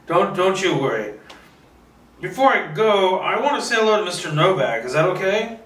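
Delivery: lightly voiced elderly hostess; Martha's voice. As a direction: play the polite old lady at the door. Martha, older woman voiced.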